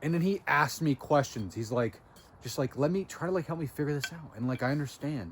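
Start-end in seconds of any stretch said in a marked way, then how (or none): 2.8-5.3 calm. Retold or imitated. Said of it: "he was very, very calm".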